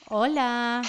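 tinny phone line sound; on speakerphone. Real, not acted. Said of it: "A ver si te tengo en altavoz". (en altavoz)

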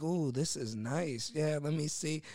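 slow, lightly put-on admiring voice; weird character. Prankster inspecting new cars in a weird character. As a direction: imitate an oddball car inspector, drawn out at first. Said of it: "put on some weird character".

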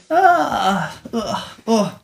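soft drawn-out morning groans; sleepy mock groaning; waking-up groan. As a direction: act out stretching awake with sighing ahs. Acts out waking on his birthday.

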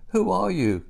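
high, loud startled demand; crying out. A narrator's reading. Old shoemaker to the mysterious figures in his room, crying out. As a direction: call out sharply, pitch leaping up then falling. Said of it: "cried the old shop shoemaker".

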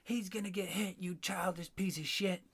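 a hint of a mocking neighbor lady. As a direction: imitate the shrill neighbor with a sneer. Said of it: "And she goes".

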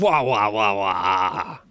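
muppet wah wah noises; muffled Muppet gibberish; muffled wah wah talk. Pretend. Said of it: "pretend to be a Muppet".

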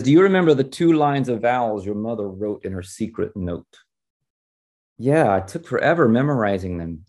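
animated read-aloud of dialogue; expressive storyteller delivery; story reading. A narrator's reading. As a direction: read a novel scene aloud, lifting the quotes. Reads novel dialogue aloud.

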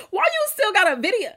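laughing in disbelief; high, laughing disbelief. Real, not acted. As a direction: squeal it through a laugh.

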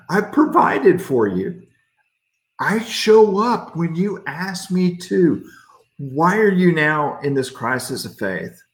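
an impatient God listing everything he did; exasperated God. Pretend. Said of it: "That's what I would have said".

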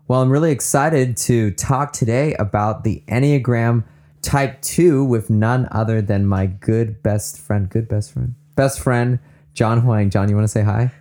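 lively, polished podcast introduction; upbeat professional host welcome; excited, professional host. Real, not acted. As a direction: sound really excited but professional, introducing your guest. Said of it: "You sound really excited right now".

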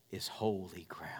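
awed whisper of sacred words; God's words whispered with reverence. Acted. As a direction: breathe it out in awe.

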